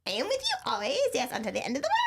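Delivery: lightly voiced anime character. Player trying the verse in an anime voice. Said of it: "My anime".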